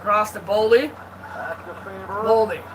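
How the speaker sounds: terse pass-by-pass hockey call; name each pass as it happens; live play-by-play. Real, not acted. Amateur commentator tracks Boldy and Faber, live play-by-play.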